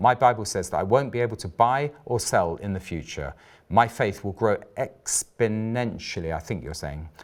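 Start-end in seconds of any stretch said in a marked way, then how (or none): none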